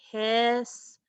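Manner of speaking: "hiss, tor" slowly, with a gap between; measured sounding-out of "hiss, tor"; syllable by syllable. Shown as a demonstration. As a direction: stretch "hiss" and "tor" as separate beats. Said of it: "see what our second syllable was".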